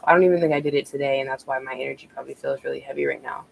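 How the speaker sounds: rushed, breathless words; talking while short of breath. Real, not acted. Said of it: "I'm kind of out of breath".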